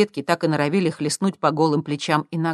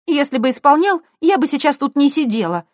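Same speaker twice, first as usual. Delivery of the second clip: higher, louder sullen reply; gloomy; 11 semitones higher, 7 dB louder than usual. A narrator's reading. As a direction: answer sourly. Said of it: "хмуро ответила Светка". (хмуро, громче и выше)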